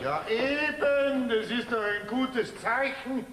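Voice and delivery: put-on high, slow, amused old man. Grandfather amused by young couple's quarrel, slow and high. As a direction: grandfather savours the quarrel as good sign.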